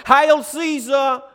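high, shouted acclamation; big, drawn-out victory hail; soldiers' cry. Acted. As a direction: shout it out slowly like saluting troops. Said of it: "soldiers who would cry out".

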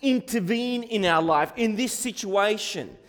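mild, urgent plea; calling on God. Acted. Congregation asks God to intervene, calling on God. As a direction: appeal earnestly for help. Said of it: "we call to God and we ask him".

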